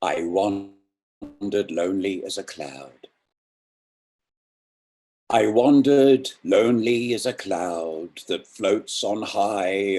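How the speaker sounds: measured, lilting poetry reading; poem recital. Acted. Host reciting Wordsworth to listeners, gentle and lilting. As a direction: let the lines sway gently.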